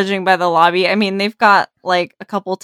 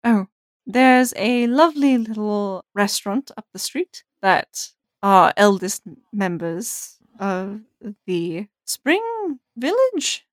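lightly voiced innkeeper recommending a local place; a hint of a chatty, helpful innkeeper; musing innkeeper, lightly put on; friendly innkeeper; 2 semitones higher than usual. Game master plays innkeeper.

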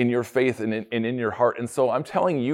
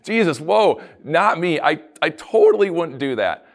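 louder, laughing mock alarm; startled denial; 4 semitones higher, 3 dB louder than usual. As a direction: protest your innocence with a nervous laugh. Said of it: "wouldn't you instantly go".

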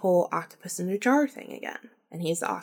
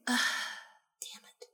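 very soft, under-the-breath grumble; privately curse, barely voiced; retold annoyed aside; 11 dB quieter, faster than usual. To herself as he nears the kitchen, muted annoyance.

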